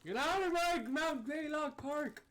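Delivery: very high, slow, loud cranky geezer; sputtering foiled villain. Pretend. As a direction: scream it like a furious old ranger. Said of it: "old park ranger ... shaking his fist".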